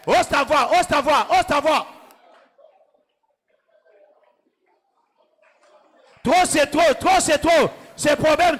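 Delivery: rally the church like a commander; fervent preaching. Acted. Pastor drives the crowd to shout down their problems.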